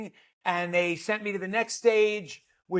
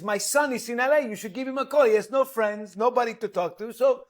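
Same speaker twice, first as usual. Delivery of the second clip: put-on Uruguayan accent; 3 semitones higher, faster than usual. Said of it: "he has a charming accent".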